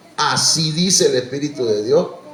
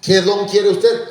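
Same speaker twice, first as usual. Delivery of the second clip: slow mock asking; 6 semitones higher, 4 dB louder, slower than usual. Mock question to believers.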